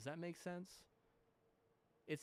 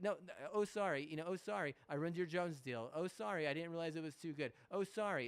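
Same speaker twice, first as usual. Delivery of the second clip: higher, louder sarcastic fake apologizing; mock apology; 4 semitones higher, 4 dB louder than usual. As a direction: whine out a fake sorry to mock them. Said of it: "It's like".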